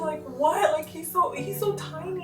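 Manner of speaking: high, tearful, distraught pleading; retold distraught crying. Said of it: "I was, like, crying".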